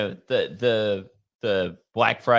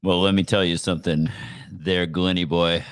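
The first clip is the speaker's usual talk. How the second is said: sexy voice; 6 semitones lower than usual. Pretend. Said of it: "talk in my sexy voice from now on".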